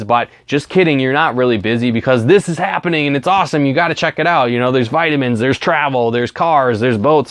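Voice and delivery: oversell it like a hyped-up recruiter; over-the-top pitch. Shown as a demonstration. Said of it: "That is not how you invite effectively".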